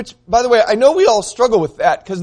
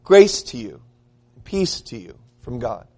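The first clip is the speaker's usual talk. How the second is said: gentle blessing; 8 semitones lower, 4 dB quieter than usual. Shown as a demonstration. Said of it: "it would sound something like this".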